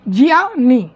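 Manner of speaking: ज्ञानी said again as jyani; correct pronunciation. Shown as a demonstration. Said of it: "समझे?".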